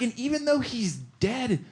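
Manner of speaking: high, tearful tribute; hammed-up sentimental eulogy on the edge of crying; mock choked up. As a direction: imitate being deeply moved. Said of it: "I got, like, really choked up".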